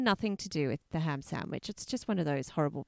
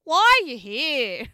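incredulous; 6 semitones higher, 10 dB louder, slower than usual. Retold or imitated. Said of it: "I can imagine her saying".

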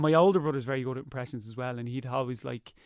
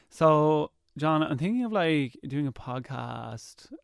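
slow, bored monotone, dragging at the end; flat Daria-style drone, barely bothered; mock-bored drawl; much slower than usual. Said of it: "really kinda, like, oh, monotone".

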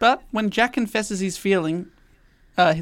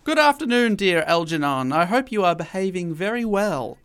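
Lady Bracknell. Acted. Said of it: "unleash a bit of Lady Bracknell on you".

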